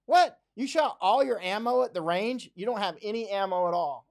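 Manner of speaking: high, loud incredulous outburst on What; a sudden yelp of disbelief, then scolding; shocked disbelief. Retold or imitated. Gun owner scoffing at a man who shot all his ammo, high and loud disbelief. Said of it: "It's like".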